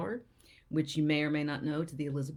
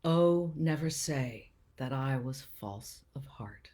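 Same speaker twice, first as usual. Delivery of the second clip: measured verse reading with small pauses; sonnet recital; 3 dB louder, slower than usual. Acted. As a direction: recite it earnestly, unhurried, phrase by phrase.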